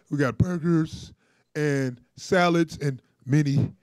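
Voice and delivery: breathless Trump imitation; out of breath. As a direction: puff through it, winded. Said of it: "he even said it like he's out of breath".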